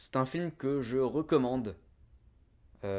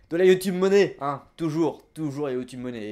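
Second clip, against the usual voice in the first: mock excited; 5 semitones higher, 13 dB louder than usual. Mock greed joke about YouTube money.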